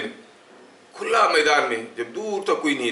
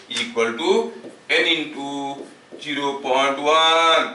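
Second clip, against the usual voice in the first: slow dictation; much slower than usual. Acted. Dictates the formula.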